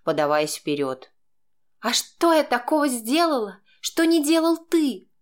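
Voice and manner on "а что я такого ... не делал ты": high, louder woman's voice, demanding; indignant woman's voice, raised high; demanding wife. A narrator's reading. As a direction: she throws the accusation back. Wife demands answer in quarrel.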